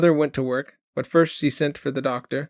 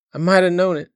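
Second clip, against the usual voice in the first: sobbing; 5 semitones higher, 7 dB louder than usual. A narrator's reading. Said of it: "she was sobbing".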